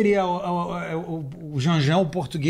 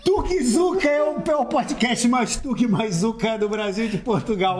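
slow, raised announcer delivery; podcast tagline; 3 semitones higher, slower than usual. Acted. Host plugging the Tuga-Zuca podcast, slow announcer voice. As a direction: announce the show's slogan with drawn-out words.

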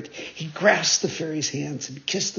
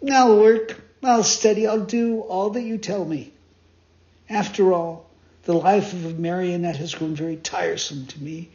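earnest vow. Acted. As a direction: vow it with resolve. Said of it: "said seriously".

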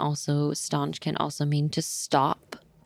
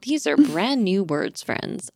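put-on bright, singsong teacher to little kids; kindergarten teacher voice; 2 semitones higher, 4 dB louder than usual. Shown as a demonstration. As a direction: announce it like to a class of five-year-olds. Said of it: "this is a kindergarten teacher voice".

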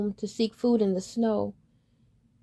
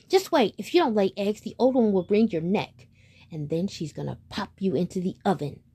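menacing hen; 4 dB louder than usual. Acted. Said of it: "said the hen".

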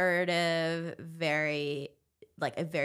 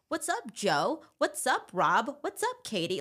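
higher-pitched, breezy greetings to familiar faces; dad greeting everyone; 5 semitones higher, slower than usual. Retold or imitated. Dad hailing the local business owners, higher-pitched friendly greeting. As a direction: call out each hello higher, as to an acquaintance. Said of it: "he's like".

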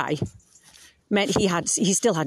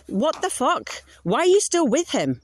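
higher, incredulous what the fuck; mock friend in disbelief, pitched up; exasperated friends; 8 semitones higher than usual. Friends losing patience with you.

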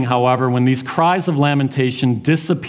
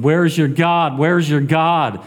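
mildly mocking, raised-pitch jeer; insistent taunt, understated; 5 semitones higher than usual. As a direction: needle him as his accusers would. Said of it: "He's being taunted".

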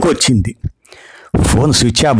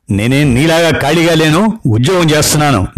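annoyed retort; 5 semitones higher than usual. Acted. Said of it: "తెక్కరేగింది".

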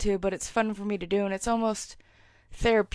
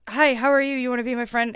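eager friendly greeting; 3 semitones higher, faster than usual. Retold or imitated. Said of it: "like a happy dog".

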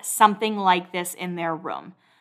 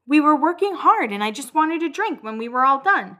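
retold defensive plea, pitched higher; defensive protest; 6 semitones higher than usual. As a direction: protest in a higher voice, imitating her.

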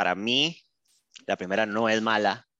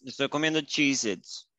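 chewing while talking; words around a bite of snack; mouth full; 2 semitones higher than usual. Real, not acted. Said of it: "Perdón por el A S M R".

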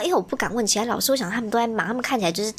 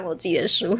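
breathy whispered aside; 3 semitones lower than usual. Real, not acted. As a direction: whisper it under your breath.

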